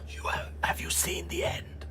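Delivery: high, fervent preacher voice; street preacher. Acted. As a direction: zealot greeting a convert. GM plays the preacher.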